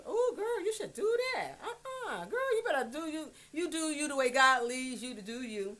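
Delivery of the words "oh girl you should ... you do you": mock gossiping friend. Mother mimicking friends giving unwanted advice, gushing. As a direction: gush like a meddling friend. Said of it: "they go".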